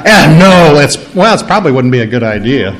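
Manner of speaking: half-hearted refusal, dropping low and quick; waver, then trail into a weak excuse; wishy-washy no. Acted. Answering a donut request, wishy-washy refusal. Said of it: "It's not a may, it's not a".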